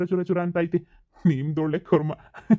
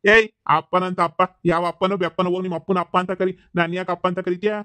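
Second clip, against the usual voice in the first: louder, slowed scolding, brushing off the daughter; a cranky man snapping the daughter away, louder; irritated rebuke; 4 dB louder than usual. Acted. Annoyed man rebuffs calling him father. (ಸಿಡುಕಿನಿಂದ ಜೋರಾಗಿ ಗದರಿಸುವುದು)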